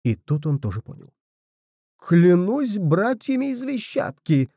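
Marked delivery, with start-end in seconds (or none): 2.0-4.5 much higher and slow, crying out in horror; the truth hits him all at once; horrified exclamation. A narrator's reading. Zwentibold realising where Bulrich went, horrified cry. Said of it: "вскричал он в ужасе".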